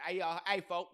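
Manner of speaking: a quick taste of Atlanta Southern talk; down south Atlanta accent. Shown as a demonstration. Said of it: "like, a down south Atlanta".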